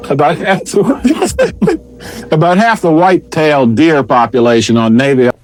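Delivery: breaking into laughter mid-sentence; laughing, words squeezed out; trying not to laugh. Real, not acted. Anchor laughing through the report.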